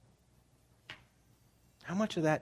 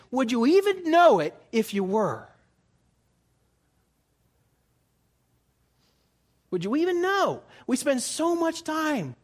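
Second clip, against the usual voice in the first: much higher, louder emphatic preaching; preaching at full force; 7 semitones higher, 6 dB louder than usual. Acted. Pastor challenging his congregation, preaching at full force. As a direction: drive the point home to the congregation.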